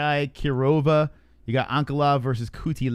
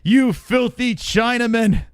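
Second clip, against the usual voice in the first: slow, louder put-on troll sneer; mock troll voice; 8 semitones higher, 5 dB louder, slower than usual. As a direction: drag out "filthy" like a hater. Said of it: "mocking the commenters".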